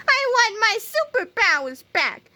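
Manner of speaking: high-pitched whiny wail; mock sobbing. A narrator's reading. Melvin begs for his superpowers back, mock sobbing whine. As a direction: whine it like a crybaby. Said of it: "sobbed Melvin".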